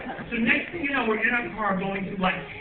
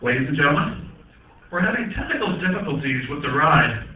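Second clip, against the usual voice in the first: lower, flat announcer read; intercom announcement; 7 semitones lower, 3 dB louder than usual. Retold or imitated. Ride operator over the intercom, mock announcer voice. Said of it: "they come on over the intercom".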